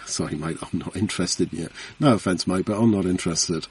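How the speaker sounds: soft, low, dismissive brush-off; a hint of a bored householder waving off a salesman; imitating a householder. Householder turning a salesman away at the door, mild brush-off.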